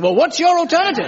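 reply with mock innocence; smug whine. Caught partner answers, high and smug. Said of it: "They say".

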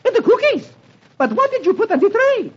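high, shocked falsetto cry; startled maid. A narrator's reading. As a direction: gasp it out high in alarm. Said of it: "The maid, startled, exclaims".

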